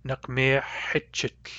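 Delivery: "Nakmehechitl" with the final A turned to short I; slow, measured "Nakmehechitl", ending in short-i syllables. Shown as a demonstration. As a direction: say "Nakmehechitl" slowly, short i before the ch. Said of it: "final A becomes a, f-, a short I".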